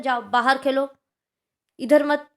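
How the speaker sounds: put-on loud, firm order to a child; commanding. Shown as a demonstration. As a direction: bark the order like a strict teacher. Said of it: "आज्ञा दे रहे हैं". (ज़ोर से आदेश देते हुए)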